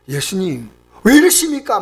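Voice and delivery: acted-out objection; strong protest. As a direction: protest in disbelief, pitch jumping up. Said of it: "항변은 막 강력하게".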